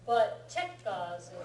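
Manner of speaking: chekazu with the first syllable check hit harder; stress on check. Shown as a demonstration. Teacher stresses the first syllable of chekazu for a student. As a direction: punch the che in chekazu. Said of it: "makes more of an emphasis on the check".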